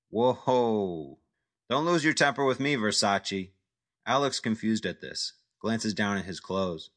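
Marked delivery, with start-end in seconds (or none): 0.1-3.5 mocking jab. Jack mocks angry Al.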